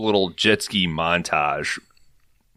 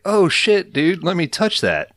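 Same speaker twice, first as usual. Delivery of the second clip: excited squeal; 10 semitones higher, 4 dB louder than usual. Retold or imitated. Trelawney voiced wanting scepter.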